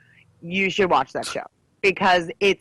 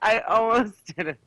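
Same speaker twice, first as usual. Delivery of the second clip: laughing; 3 semitones higher than usual. Real, not acted. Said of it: "Did you almost say it wrong again?".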